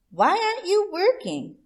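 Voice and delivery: fox voice. Acted. Chula Fox to hiding Rabbit, high and loud. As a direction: demand it sharply up high.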